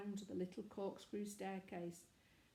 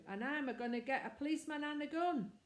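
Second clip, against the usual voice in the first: higher and fast, tumbling out excitedly; eager boyish boast; 6 semitones higher, 3 dB louder, faster than usual. Acted. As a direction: rush it out like a keen lad. Boy boasting to the vicar.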